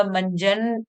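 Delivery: "मंजन" slowly as mann-jan; half-n sound. Shown as a demonstration. Teacher letting pupils hear the half न, held n in "मंजन". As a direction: stretch the first n of "मंजन". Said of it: "में आधा न सुनाई दे रहा है".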